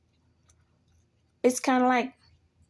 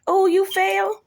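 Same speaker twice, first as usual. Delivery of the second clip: mocking; 10 semitones higher, 5 dB louder, slower than usual. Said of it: "instead of you laughing".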